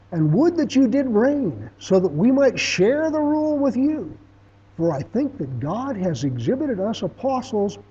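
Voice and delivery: drip sarcasm on every line; sarcastic. Shown as a demonstration. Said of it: "turn your sarcasm switch on".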